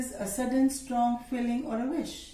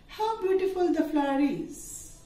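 raised pitch, admiring exclamation; exclamatory; 5 semitones higher than usual. Shown as a demonstration. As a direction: sound amazed at the flower. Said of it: "Now assertive into exclamatory".

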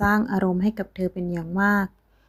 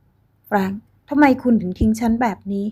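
slow, louder accusing plea; loud reproach; 2 semitones higher, 4 dB louder than usual. Acted. Ex-girlfriend loudly reproaching Frank for leaving her. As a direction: demand an answer from Frank.

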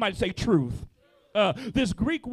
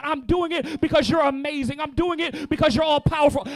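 prayer building from calm to louder; model prayer, building; 2 semitones higher, 3 dB louder than usual. Shown as a demonstration. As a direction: pray it out, swelling with each line. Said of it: "lift your hands in your spirit and say".

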